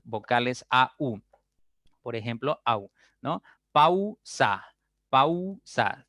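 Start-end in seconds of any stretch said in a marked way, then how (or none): 3.7-6.1 pausa with a clear a to u glide, said higher; demonstrated pausa. Shown as a demonstration. Teacher showing the class the glide, pausa exaggerated. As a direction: open on the a of pausa, then round to u. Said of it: "al pronunciar la U ya se cierra".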